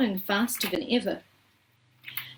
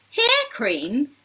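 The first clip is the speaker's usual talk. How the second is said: higher questioning exclamation; incredulous cry; 5 semitones higher, 4 dB louder than usual. A narrator's reading. Mike questioning the sign's last cream, incredulous cry. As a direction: echo it in disbelief, pitch lifted. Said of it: "cried Mike T V".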